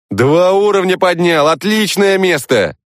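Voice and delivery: high, gushing burst of excitement; excitedly rattled off. Acted. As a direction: blurt it out buzzing with joy. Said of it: "возбуждённо протараторил Женя".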